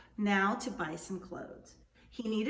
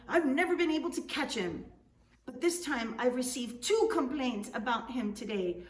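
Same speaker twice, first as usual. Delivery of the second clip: higher, louder annoyed complaint; indignant governor; 4 semitones higher, 4 dB louder than usual. Acted. Governor complaining to Juan about the trickster, indignant. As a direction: grumble about the thief he can't catch.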